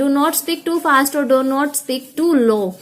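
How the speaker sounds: very slow, word by word; slow heading read. Shown as a demonstration. Teacher to students, slowly reading a tip heading.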